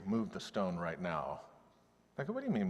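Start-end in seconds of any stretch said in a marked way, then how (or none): 0.0-1.4 quiet firm command. Retold or imitated. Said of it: "now he's angry".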